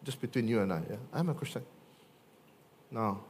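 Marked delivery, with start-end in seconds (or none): 0.0-1.6 hushed aside. Pretend. Secretive hushed confession.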